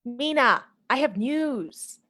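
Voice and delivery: slow, stretched coaxing singsong; insistent singsong. Acted. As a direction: drag it out to get attention. Lucy insists, drawn out.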